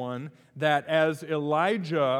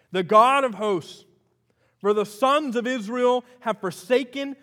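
higher, louder, preaching Elijah's complaint; loud impassioned plea; 6 semitones higher, 8 dB louder than usual. Acted. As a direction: cry it out to God with full force. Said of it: "These are the words of Elijah".

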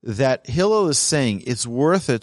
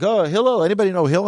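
mocking scorn; 5 semitones higher, faster than usual. Mocking the wagerer's disdain.

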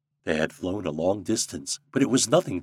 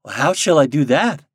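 raised, louder puzzled question; questioning Nuke; 6 semitones higher, 8 dB louder than usual. A narrator's reading. Popopo asking his king for guidance, puzzled. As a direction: ask it as the lightly voiced Nuke. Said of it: "asked Popopo".

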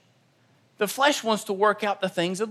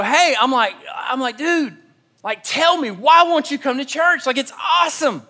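higher, pushy friendly pleading; eager urging; 4 semitones higher than usual. Retold or imitated. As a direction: press him to come, half laughing. Urging friend while smoking.

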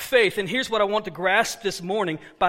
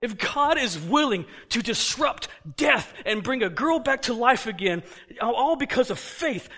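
rising preaching fervor; 3 semitones higher than usual. Real, not acted. Preaching climax.

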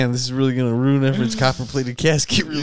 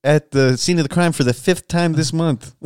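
news anchor. Pretend. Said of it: "do news station".

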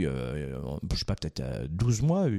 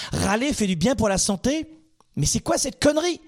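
incredulous; 5 semitones higher than usual. Acted. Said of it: "Mais qu'est-ce que c'est que cette connerie?".

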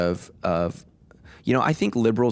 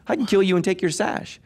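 laughing mock threat; 10 semitones higher than usual.

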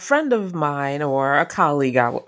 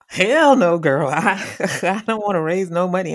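blunt hell no; 3 semitones higher than usual. Retold or imitated. To the friend on the phone, a mock sassy refusal. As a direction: toss off a sassy flat refusal. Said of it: "Did I say".

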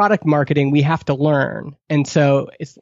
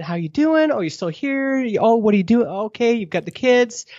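breezy, higher-pitched chit-chat; typical small-talk questions; 5 semitones higher than usual. Retold or imitated. Meeting an alumnus in the grocery store, breezy higher small talk. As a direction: toss off the usual catch-up questions lightly. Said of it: "there's the typical question".

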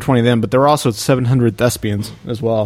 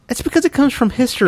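retorting; 11 semitones higher than usual. Retold or imitated. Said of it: "I was like".

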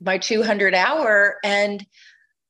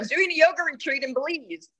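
excited announcement; 9 semitones higher than usual. Retold or imitated. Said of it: "I said".

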